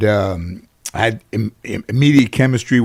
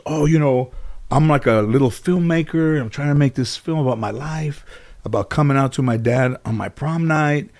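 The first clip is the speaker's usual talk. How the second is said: softly imitated shy pitch of an idea; meek young filmmaker; 3 semitones higher, 4 dB quieter than usual. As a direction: lightly play a meek fan explaining herself. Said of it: "like, really kind of meek".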